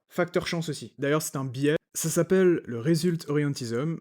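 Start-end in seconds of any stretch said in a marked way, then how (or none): 2.8-4.0 English words in a French speaker's English accent; accent anglais approximatif. Real, not acted. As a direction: attempt an English accent on the term. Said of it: "avec mon super accent anglais". (accent anglais à la française)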